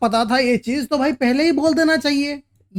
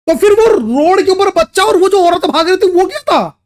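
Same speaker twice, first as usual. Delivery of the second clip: higher-pitched, incredulous question; puzzled outburst in a raised pitch; baffled questioning; 5 semitones higher, 3 dB louder than usual. Real, not acted. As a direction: demand an explanation, pitch lifted in bewilderment. Baffled listener demands an explanation.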